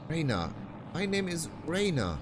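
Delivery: put-on high girl voice. Ruby insisting on her name.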